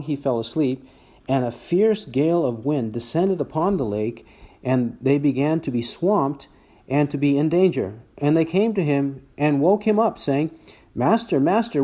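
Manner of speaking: emphatic read-aloud Bible narration; scripture reading. Acted. Preacher reads the storm story to the congregation, emphatic scripture reading. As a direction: read the passage out with lively emphasis, quotes lifted.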